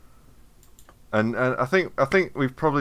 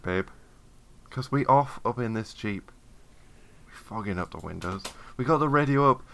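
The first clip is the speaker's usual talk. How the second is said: smooth crooning recitation, rolling the babes; mock sexy love poem. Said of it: "this is your apology poem".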